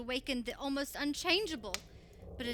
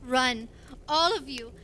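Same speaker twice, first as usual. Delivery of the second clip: urgent call to run; 4 semitones higher than usual. Acted. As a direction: shout them out of the burning room. Urging everyone to flee fire.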